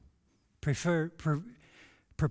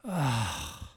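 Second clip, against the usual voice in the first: imitated sigh; 4 semitones lower, 3 dB quieter than usual. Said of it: "my dad just let out this big sigh".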